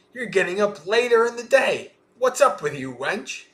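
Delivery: high mock telling-off; scolding mistress. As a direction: scold the late-rising maid, pitch jumping up. Acted mistress scolding late maid.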